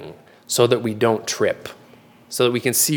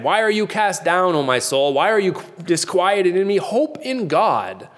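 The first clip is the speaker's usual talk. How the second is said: psalm quote; 5 semitones higher than usual. Retold or imitated. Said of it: "what King David said".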